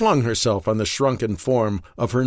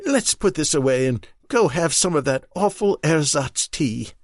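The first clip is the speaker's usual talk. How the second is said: higher wife's voice, wry and teasing after tears; Marion, teasing wife; 5 semitones higher than usual. Acted. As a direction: tease him gently through relief. Marion stands, brisk.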